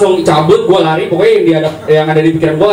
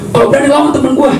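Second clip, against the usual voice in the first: high mock yell with a combative tone. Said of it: "Wawan teriak".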